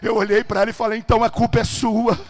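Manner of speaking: thundering pulpit storytelling; full-force preaching. Acted. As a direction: drive every phrase out at full volume.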